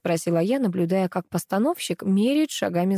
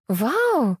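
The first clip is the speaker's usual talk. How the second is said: high excited squeal; squealing wow; 6 semitones higher, 3 dB louder than usual. A narrator's reading. Girl squeals to the room with delight. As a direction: squeal with joy. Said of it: "завизжала Алиса".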